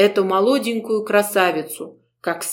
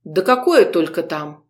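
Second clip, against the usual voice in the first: ordinary delivery, nothing marked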